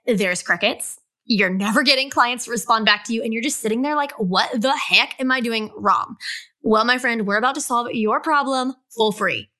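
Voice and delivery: promo voice with mock gasp; playful sales pitch; ad read. Ad read for pricing guide.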